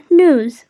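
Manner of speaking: "news" as NOOZ; ending in Z. Shown as a demonstration. Teacher models the word, "news" as nooz. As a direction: end "news" on a z sound. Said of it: "end it with a z sound".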